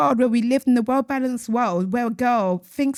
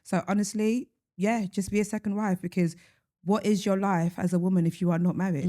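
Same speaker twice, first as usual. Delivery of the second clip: deadpan mock agreement; understated sarcastic verdict; 3 dB quieter than usual. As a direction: agree drily, as if sincere. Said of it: "I hope you hear the sarcasm".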